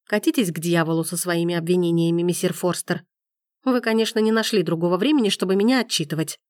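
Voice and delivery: plain reading voice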